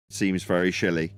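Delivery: slurred "shilly" while drinking tea; slushy sh for s. Real, not acted. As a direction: mouth full of tea, "shilly" for silly. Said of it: "that was me drinking tea. I meant silly".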